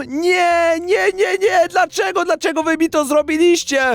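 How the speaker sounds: high, wounded protest; upset outcry. Real, not acted. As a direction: cry out at the unfairness. Pelted with poop, shouting.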